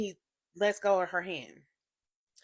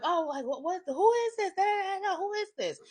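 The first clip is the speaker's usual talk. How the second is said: mock demanding woman; 12 semitones higher than usual. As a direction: squawk it like the other woman.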